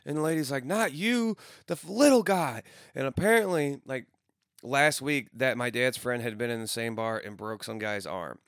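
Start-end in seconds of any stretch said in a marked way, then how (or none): 0.6-2.6 high, loud retold shout; mock yelling bar lady. Bar lady yelling at the little guy, high mock shout. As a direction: bark it out like an angry barmaid.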